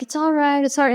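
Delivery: calm a crying sibling; lightly acted reassurance; retold soothing sister. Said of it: "And she calmed me down".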